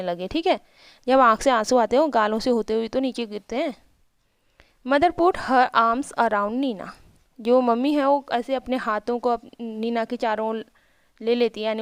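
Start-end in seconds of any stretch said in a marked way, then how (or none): 4.9-6.9 slow, careful read of each English word; slow reading aloud. Shown as a demonstration. Teacher reading the English story line to her pupils, slow and careful. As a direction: read it out slowly for the class.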